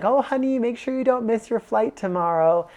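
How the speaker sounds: high, loud fussing-mom voice; nagging mother. Retold or imitated. Mom reminding her grown son about his flight, mock nagging. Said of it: "nag me like a mother".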